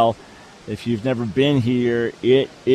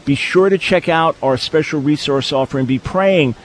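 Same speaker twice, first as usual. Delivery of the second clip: radio sign-off. Acted. Radio break sign-off over music.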